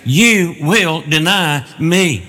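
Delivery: each word of "you will deny me" drawn out slowly; emphatic. Retold or imitated. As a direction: pronounce "you will deny me" as a slow, certain verdict. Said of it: "it's in the emphatic voice".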